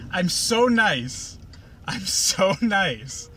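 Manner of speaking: slowly savoured mock self-praise; slow sarcastic mock-smug. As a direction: drag it out, mocking her sweetness. Mocking Pinkie's self-praise.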